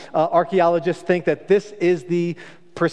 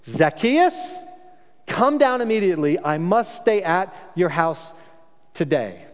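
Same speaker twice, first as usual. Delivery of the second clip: commanding call; 2 semitones higher than usual. Shown as a demonstration. Jesus calling sharply up to Zacchaeus in the tree, commanding. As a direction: summon him down like a stern rabbi. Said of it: "And Jesus doesn't do that".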